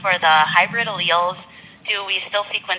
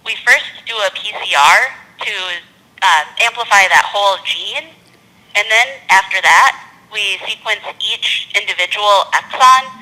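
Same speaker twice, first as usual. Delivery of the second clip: slower, deliberate, carefully spaced explanation; slowed down; 2 semitones higher, 3 dB louder than usual. Real, not acted. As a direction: spell it out step by step for a listener who can't follow. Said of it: "they need you to slow down".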